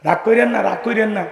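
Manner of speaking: softly soothing the crowd, fading; calm them down gently. Real, not acted. Preacher reassuring the congregation not to be angry.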